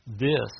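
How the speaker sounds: "This" punched out loud and falling; stress on this. Shown as a demonstration. Preacher to congregation, stressing "This" loudly. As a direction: hit "This" hard on its own, then pause. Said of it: "might emphasize that word".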